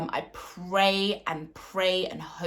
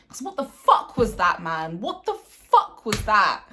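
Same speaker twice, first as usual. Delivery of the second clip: furious outburst; 2 semitones higher, 6 dB louder than usual. Real, not acted. Fan swearing at his team's display, loud and furious. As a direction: spit out the disbelief loudly.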